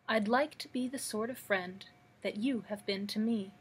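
even, measured verse with falling line ends; understated poetry recital in a regular rhythm; poem reading. Acted. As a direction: recite it steadily, pausing after each line. Reads Guest's friendship poem.

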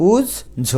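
উজ্জ broken as "uj... jho"; syllable by syllable. Shown as a demonstration. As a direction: pause inside the double j of উজ্জ. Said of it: "এটার উচ্চারণ". (উজ্জ, ভেঙে উচ্চারণ)

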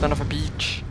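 beach swapped in for the curse, said plainly; self-censored curse. Real, not acted.

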